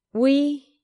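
nervous break on "We"; voice cracking. Acted. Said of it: "Louis's voice cracked".

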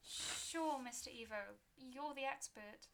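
nervous agreeable gravedigger; unnerved keeper. Acted. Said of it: "smile became unnerved".

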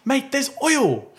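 high, drawn-out mock dismay; flustered, angry buyer. Buyer finding oil under the car, mock outrage. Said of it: "just so flustered and angry".

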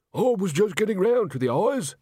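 high, irritated retort; peeved, high-voiced victim; snapping. A narrator's reading. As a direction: snap back at the rival storyteller. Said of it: "snapped Tommy".

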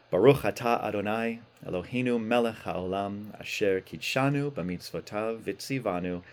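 chanted Hebrew blessing; prayer. Acted. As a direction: recite the blessing reverently.

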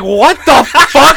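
slow, laughing what the fuck; disbelieving laugh at the punchline; laughing disbelief. Retold or imitated. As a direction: laugh through the words in shock. Reacting to the gum job.

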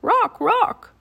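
high, loud urgent call. A narrator's reading. Annie calls up to the bird, high and loud. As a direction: call the name up to someone overhead. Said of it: "She called up to the bird".

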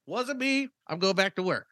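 high innocent voice. Retold or imitated. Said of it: "And I'm like".

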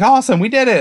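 high-pitched retold cheer; mock celebration. Retelling the girl celebrating the kill, mock triumph.

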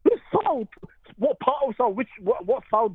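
can't believe that answer; incredulous. Real, not acted.

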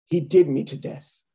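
imitating an actress's poor Irish accent; bad Irish accent. Comic quotes the actress's line, bad Irish accent. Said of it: "It's when she said".

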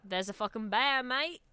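put-on understated Aussie accent, lift on "mate"; mock Australian accent. Trading bear warnings, understated mock Australian accent. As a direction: warn casually in put-on Australian.

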